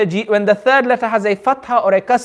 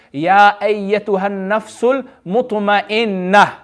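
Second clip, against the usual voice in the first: slow recitation; slower than usual. Shown as a demonstration. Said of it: "And then the next verse is".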